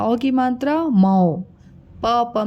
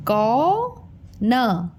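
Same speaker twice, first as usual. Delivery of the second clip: syllables slowly; much slower than usual. Shown as a demonstration. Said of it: "अब शब्द पढ़ते".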